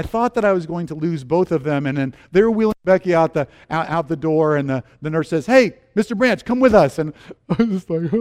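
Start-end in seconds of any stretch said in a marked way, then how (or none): 5.5-7.0 higher, raised-voice summons; calling out. Acted. Nurse summoning husband to follow to delivery room, calling out. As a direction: call him over urgently.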